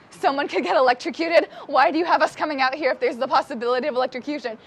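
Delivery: rising, disbelieving question on "get"; incredulous echo. Retold or imitated. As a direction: throw the warning back in shock. Echoing the guide in disbelief.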